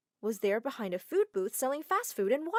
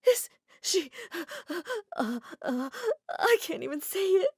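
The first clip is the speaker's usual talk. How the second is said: high, tearful stammer; voice breaking; 9 semitones higher, 3 dB louder than usual. Acted. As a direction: choke on the words. Mom shocked, voice breaking.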